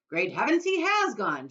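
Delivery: father shocked his son vanished; shouted. Acted. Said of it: "shouted Mister T V".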